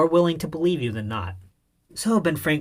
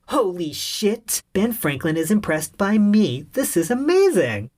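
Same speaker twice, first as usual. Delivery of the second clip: slow awe building higher and louder; amazed inner thought; 6 semitones higher, 4 dB louder, slower than usual. Retold or imitated. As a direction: gush with disbelief. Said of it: "I'm thinking".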